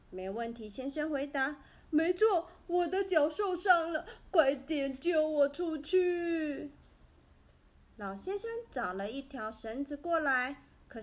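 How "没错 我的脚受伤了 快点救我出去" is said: urgent plea. A narrator's reading. Trapped man answers old man.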